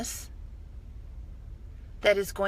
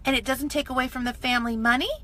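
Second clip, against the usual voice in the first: much higher and louder, squealing with delight; giddy excitement; 11 semitones higher, 7 dB louder than usual. Retold or imitated. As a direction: squeal like you just earned your first money. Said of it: "I'm like".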